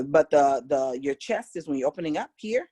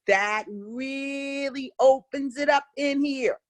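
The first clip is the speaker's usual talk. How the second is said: slow, higher, placed-forward voice; nasal resonance demo; 7 semitones higher, slower than usual. Shown as a demonstration. Teacher showing students bright nasal resonance while speaking. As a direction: say it ringing in the nasal cavity. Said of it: "Curly that used to do that one".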